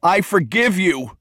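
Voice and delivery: high, slow, drawn-out cry; crying out loudly. A narrator's reading. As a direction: cry it out with full release. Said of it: "he cried loudly".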